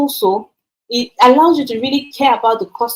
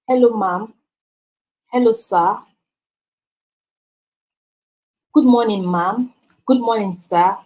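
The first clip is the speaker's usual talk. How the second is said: polite greeting. Shown as a demonstration. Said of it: "using professional language".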